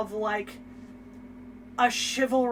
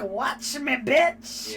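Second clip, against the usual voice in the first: louder, cocky retort in imitation; mock sassy defiance; 3 semitones higher, 3 dB louder, much slower than usual. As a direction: throw it back as a hammed-up dare. Acted sassy retort in bickering.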